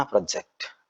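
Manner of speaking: പ്രൊജക്ട് with short first syllable, weight on ജക്ട്; stress on second syllable. Shown as a demonstration. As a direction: say പ്രൊജക്ട് as the verb, leaning on ജക്ട്. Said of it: "ജക്റ്റലാണ് പോകുന്നത്".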